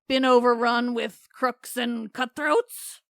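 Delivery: a giant spotting intruders in his cave; Polyphemus voice. Acted. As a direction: drag it out, eyeing the strangers. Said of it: "don't know why my voice is like that for Polyphemus".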